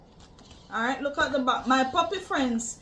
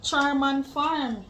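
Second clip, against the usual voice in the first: "Charm and farm" said slowly, each rhyme leaned on; rhymes stressed; 4 dB louder, slower than usual. Shown as a demonstration. Mom showing her kids that charm and farm rhyme, slowly and clearly. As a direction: spell out the rhyme in "Charm and farm", slow and even. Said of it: "They rhyme".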